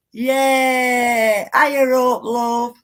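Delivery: calling out a greeting. Real, not acted. Calls out greeting to viewer.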